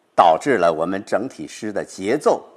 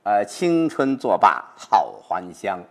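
slow recitation; slower than usual. Shown as a demonstration. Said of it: "紧接着呢".

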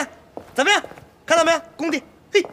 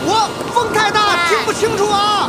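shouting over wind; 5 semitones higher than usual. Pretend.

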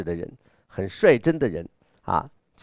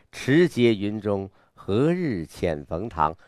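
slightly inward recital; slower than usual. Shown as a demonstration. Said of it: "稍微内在一点儿". (稍微内在地慢慢朗诵)

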